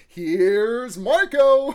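very slow, loud, drawn-out call; announcer shout. Retold or imitated. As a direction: stretch it like a TV host's intro. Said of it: "he's just like".

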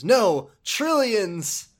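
loud, high, drawn-out megalomaniac cry; hammed-up greedy exclamation; grandiose villain boast. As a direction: stretch it out like a gloating tycoon.

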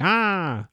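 high, drawn-out "ah"; mock ambush cry. Everyone jumps out on A, mock ambush cry.

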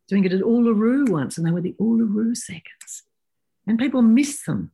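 hushed, breathy aside; whisper. Real, not acted. Whispering an aside to the podcast host. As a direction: whisper it like a secret to the listener. Confiding aside about the seconds.

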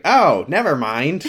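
slow, high, giving up at once; deflated never mind. Retold or imitated. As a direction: drop the dream with a slow sigh. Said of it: "And I was like".

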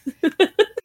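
high giggle; short high laugh. Real, not acted. Laugh after explanation.

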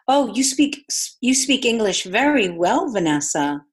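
slow, loud, over-enunciated mock compliment; patronizing praise. Friend's mom complimenting Vanessa's English, mock patronizing. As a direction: imitate a patronizing parent with exaggerated pitch swings.

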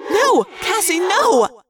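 high, loud, drawn-out no; screamed warning. A narrator's reading. Friend screams in Cassie's head, frantic warning. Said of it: "a voice screamed in my head".

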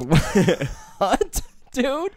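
rising, high baffled "what"; mock confusion. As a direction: act totally lost. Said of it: "You're like".

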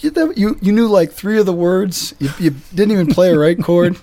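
high-pitched incredulous critique; mock scolding. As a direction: tear into a bad performance in jest. Priest berates busker in story.

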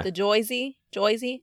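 thick Jersey "Joyzy"; Jersey accent on the name. Shown as a demonstration. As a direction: say Jersey as Joyzy, New Jersey style. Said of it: "in which accent? The, the Jer".

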